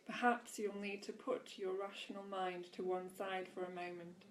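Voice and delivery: deliberate inspirational read-aloud. A narrator's reading. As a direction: read the teaching out to listeners with measured emphasis. Reads aloud from book.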